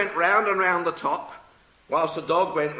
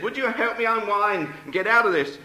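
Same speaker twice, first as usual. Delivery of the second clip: high, raised request for help; pleading; 6 semitones higher, 4 dB louder than usual. Acted. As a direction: push it up in mild distress. Trapped woman pleads with milkman.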